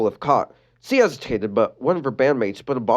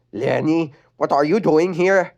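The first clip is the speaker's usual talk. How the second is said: Adam voice; 4 semitones higher than usual. Acted. Adam's voice.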